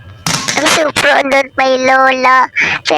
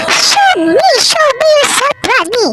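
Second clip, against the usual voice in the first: taunting call; 11 semitones higher than usual. Real, not acted. Taunting Granny in the game.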